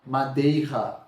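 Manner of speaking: Madeira said with a harsh throat R, madejha; wrong strong R. Shown as a demonstration. Teacher repeats the wrong pronunciation for the class, strong R. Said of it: "A gente não fala assim".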